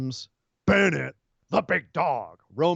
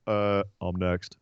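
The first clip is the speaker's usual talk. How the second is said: mock Roman; 8 semitones lower, 4 dB quieter, slower than usual.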